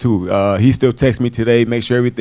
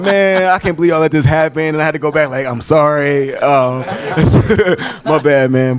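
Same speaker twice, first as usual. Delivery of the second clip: retold texts, higher and half laughing; laughing mock apology; 3 semitones higher than usual. Player retelling texts to his teammates, laughing sheepishly.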